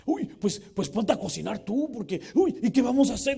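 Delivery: high, loud flustered whine; panicky dad. Acted. Preacher acting a panicking father, high and loud. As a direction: fret loudly like a stressed parent.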